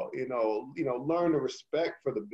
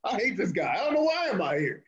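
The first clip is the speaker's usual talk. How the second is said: lightly voiced, higher, playfully panicked; a hint of a flustered wrestler wanting out; mock inner voice; 5 semitones higher than usual. Cohost jokingly voicing the wrestler caught with the heel, mock panic.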